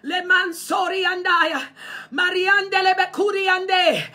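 low, hushed tongues, fading in; speaking in tongues. Real, not acted. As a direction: murmur the tongues prayer under the breath. Prayer in tongues mid-sermon.

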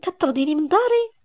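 high shocked disbelief; can't believe she's being thrown out. Acted. Niece asking in shock if she's being expelled. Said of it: "مالك بصدمة".

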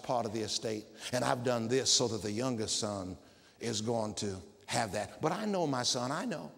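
put-on low, soft voice of an old father; old Israel speaking gently. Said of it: "as Israel said".

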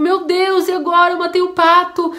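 put-on a scared kid who just broke grandma's favourite thing; frantic little voice; desperate child. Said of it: "a criança ficou desesperada".

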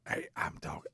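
whispered imitation of a lost voice; imitated whisper. Husband mimicking his wife's lost voice, whispered. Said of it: "she has to whisper".

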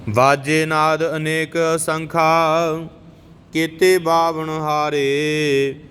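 slow, measured devotional chant; chanting scripture as a teacher; scripture recitation. Acted. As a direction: intone each line with reverence. Recites Gurbani between explanations.

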